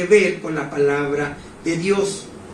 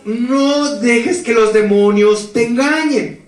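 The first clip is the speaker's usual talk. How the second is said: slow, solemn, lightly raised angel voice; slower than usual. Retold or imitated. Angel voice speaking to the troubled young man, slow and solemn. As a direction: call him by name slowly, like a messenger from above.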